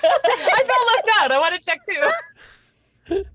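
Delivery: high, slow pouty whine; playful, drawn-out plea; mock whine. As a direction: whine like a left-out kid, half laughing. Player playfully complains of being left out.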